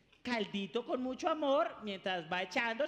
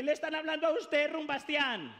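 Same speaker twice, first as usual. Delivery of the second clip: higher, fast nagging mom; scolding mother; 5 semitones higher than usual. Acted. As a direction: nag the party son. Mother scolding partying son.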